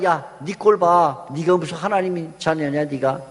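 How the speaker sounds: mock the listener lightly, as the devil; acted taunting. Satan taunting a believer in trouble, lightly acted mockery. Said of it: "그러면서 우리를 조롱해요".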